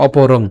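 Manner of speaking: অপরং ending in ng; mid-line ng. Shown as a demonstration. Teacher models mid-line anusvara, অপরং ending in ng. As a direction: let অপরং ring off on ng. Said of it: "আমরা উচ্চারণ করব কেমন?".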